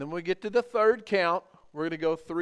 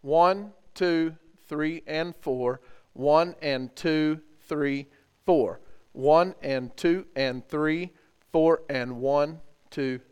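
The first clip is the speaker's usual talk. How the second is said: counting out rhythm; 3 dB louder, much slower than usual. Shown as a demonstration. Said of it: "we're gonna count it out again".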